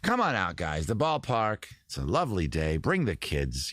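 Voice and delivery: lightly voiced old-time ballpark announcer; radio announcer impression. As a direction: coax listeners out to the ballpark. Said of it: "he's got that kind of voice".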